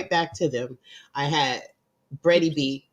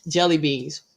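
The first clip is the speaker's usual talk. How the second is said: chewing while talking; 4 dB louder than usual. Real, not acted. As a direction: mouth full of jelly beans. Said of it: "I'm eating my Easter jelly beans".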